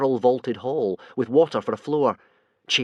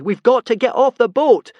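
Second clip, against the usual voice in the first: high, loud desperate yell; 11 semitones higher, 9 dB louder than usual. A narrator's reading. Hiccup yelling to Fishlegs on burning boat, desperate shout. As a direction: call out to him in panic. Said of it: "yelled Hiccup desperately".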